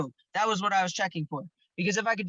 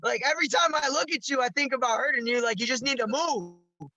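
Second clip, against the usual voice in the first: pitched-up threat, slowing at the end; retold yelling; 5 semitones higher than usual. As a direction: warn him off, high and hard. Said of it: "I was fucking yelling at him".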